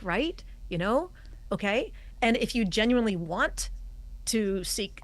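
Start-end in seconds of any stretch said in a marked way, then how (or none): 0.0-1.9 Right? You know? Okay? each rising at the end; upspeak tags. Shown as a demonstration. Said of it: "implying a tag question like".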